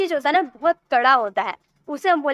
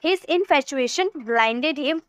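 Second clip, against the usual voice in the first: very slow model sentence; much slower than usual. Shown as a demonstration. Teacher models an example sentence.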